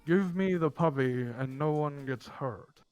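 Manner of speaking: slow, lightly voiced gruff orc woman; a hint of a menacing orc woman, slow. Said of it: "a gruff female voice".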